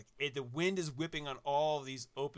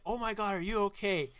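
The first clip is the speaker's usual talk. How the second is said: mock-panicked mom; 6 semitones higher, 4 dB louder than usual. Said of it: "with a panicked look".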